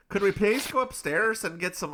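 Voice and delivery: a lightly done Irish brogue; mock Irish accent. Irish accent for the lady at the casino. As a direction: put on a playful Irish accent. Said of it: "are you ready for an Irish accent?".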